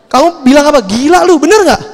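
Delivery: shocked disbelief. Acted. Imagined reply to shocking news.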